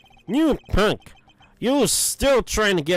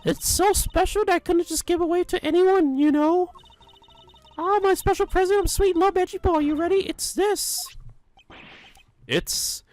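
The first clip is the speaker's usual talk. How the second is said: much higher, fussy granny voice fawning over Edgy Poo; doting old lady; 12 semitones higher than usual. Acted. Old lady fawning over Edgeworth with her gift, high doting granny voice. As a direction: gush like a lovestruck old busybody.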